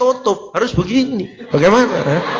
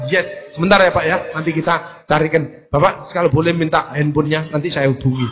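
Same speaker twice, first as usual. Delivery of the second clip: polite service voice; 5 semitones lower than usual. Shown as a demonstration. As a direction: reassure the customer kindly. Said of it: "kok ada pelayanan sing".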